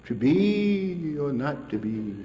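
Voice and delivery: "be" stretched long, slow theatrical line; Shakespeare recital. Acted. Speaker quoting Shakespeare to listeners, slow mock-theatrical recital. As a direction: declaim it slowly, like a stage Hamlet.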